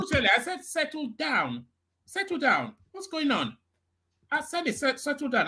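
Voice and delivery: high-pitched, pleading command to calm; insistent settle down. Real, not acted. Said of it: "And when I say settle down".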